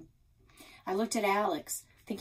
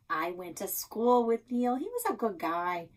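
lightly voiced chatty older woman; 2 semitones higher than usual. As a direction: tell it like a gossipy shopkeeper. Nan character voiced.

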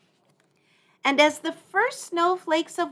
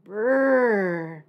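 shivering brrr; 6 dB louder than usual. Acted. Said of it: "Small Bear shivered".

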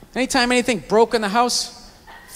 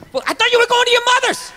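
snide jab; 10 semitones higher, faster than usual. Retold or imitated. Acted quarrel, snide parting shot.

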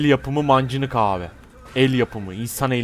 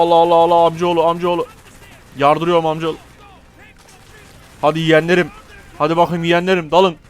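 raised, higher charging voice; rallying war cry; 4 semitones higher, 4 dB louder than usual. Pretend. Player sending his nephews in, rousing battle cry. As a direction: spur your nephews into the attack.

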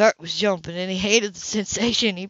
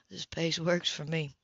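lower, slow and easy; drawn out, unhurried man; lightly voiced Ethan; 4 semitones lower, 7 dB quieter than usual. A narrator's reading. Ethan reassuring Grace, lower and slow.

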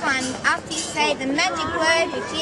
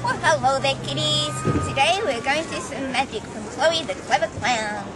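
bright showman clown voice; kids party magician. Pretend. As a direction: play the children's party magician.

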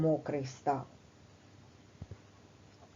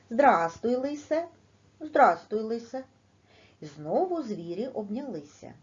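lively poem reading with the two foxes voiced higher; reading a poem to children; 3 semitones higher than usual. Shown as a demonstration. Teacher reads a fox dialogue poem to pupils, playful and higher.

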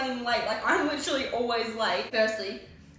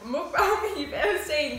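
laughing; 6 semitones higher, 7 dB louder, slower than usual. Real, not acted. Laughing mid-sentence.

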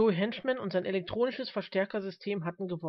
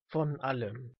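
put-on calm old man; 5 semitones lower, slower than usual. Old man answers calmly.

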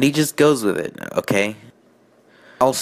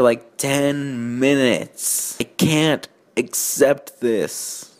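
higher, incredulous complaint, slowing at the end; exasperated rant; 4 semitones higher than usual. Real, not acted. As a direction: scold the writer in disbelief. Ranting at the story.

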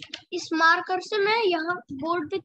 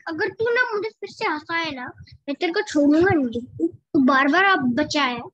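mock threat; 3 semitones lower, 4 dB louder than usual. Mock threat, trying not laugh.

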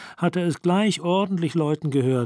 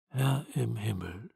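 groaning; 4 semitones lower, 8 dB quieter than usual. A narrator's reading. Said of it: "stöhnte Graham".

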